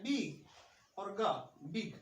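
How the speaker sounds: बिग broken into बी and ग, then joined short; sounded out. Shown as a demonstration. Teacher showing the hidden vowel, बिग sounded out in parts. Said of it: "short vowel sound है".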